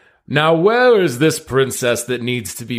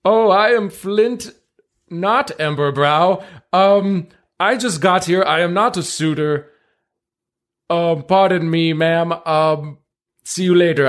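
higher, nervous adventurer voice; flustered adventurer; 6 semitones higher than usual. Acted. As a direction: play a flustered hero caught out. Player voices Flint flustered.

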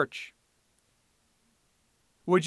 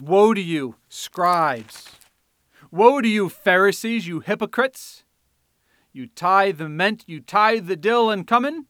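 loud, rising preacher's denunciation; thundering rebuke; 3 semitones higher, 5 dB louder than usual. Acted. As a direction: hurl the woes like a prophet. Preacher voicing Jesus' woes.

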